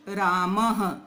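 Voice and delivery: रामः ending in a breathy ह; visarga h sound. Shown as a demonstration. Teacher demonstrating the visarga in रामः. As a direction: add an h after रामः. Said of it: "ह पढ़ना है".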